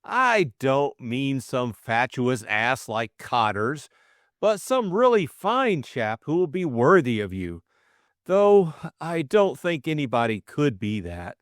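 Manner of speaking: high, eager confession, gaining courage; nervous suitor's rush of feeling; earnest young man. Acted. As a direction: blurt out love he has hidden for ages. Bill voiced, shy pleading.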